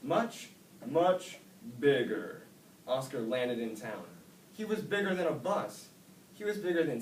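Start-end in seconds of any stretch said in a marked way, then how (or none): 0.0-2.4 higher, louder urgent plea; desperate wish. A narrator's reading. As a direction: build to a loud much bigger. Oscar wishing in panic.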